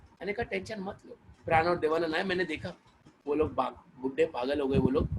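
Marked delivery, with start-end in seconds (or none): 0.4-1.2 much softer, hushed comfort; soft reassurance. Retold or imitated. Lover calms worried Tamanna, hushed and soft. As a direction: soothe her quietly.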